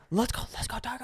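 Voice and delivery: high-pitched rallying call; fan cheer. Pretend.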